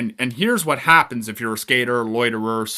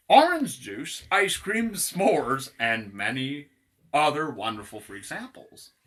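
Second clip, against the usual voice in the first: deliberate ad read with lifted list items; mock store pitch; 3 semitones higher, 4 dB quieter than usual. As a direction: advertise grisly samples like ordinary treats. Reads out the free sample list.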